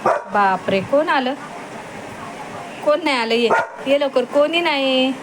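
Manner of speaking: high excited talk to her dog at feeding time; high pet-talk. Real, not acted.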